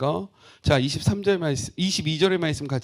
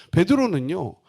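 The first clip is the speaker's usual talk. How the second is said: normal talking voice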